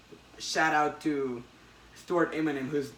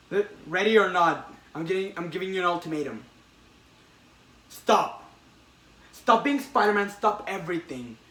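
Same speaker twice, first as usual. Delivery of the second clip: louder, hard-edged demand; threatening ultimatum; 3 semitones higher, 4 dB louder than usual. Retold or imitated. Retelling the comic, the Goblin gives Peter an ultimatum, threatening. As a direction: lay down the threat.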